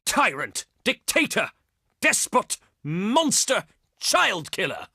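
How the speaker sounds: scornful list, word by word; indignant accusation. Acted. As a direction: hurl each insult as its own charge.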